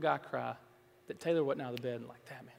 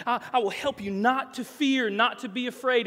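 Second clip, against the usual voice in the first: rising voice of God; 8 semitones higher, 8 dB louder than usual. Retold or imitated. Preacher voicing God, rising.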